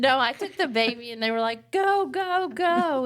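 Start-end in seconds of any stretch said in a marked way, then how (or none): 1.7-3.1 high-pitched, urgent go-go-go; imitating a crew rushing someone off; imitated urging. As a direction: hurry them out, voice pitched way up.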